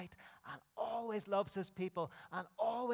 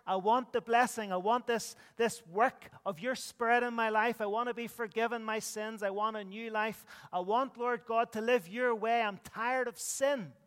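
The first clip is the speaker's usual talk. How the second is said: sample prayer; 4 semitones higher, 5 dB louder than usual. Shown as a demonstration. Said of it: "You need to turn to him and say".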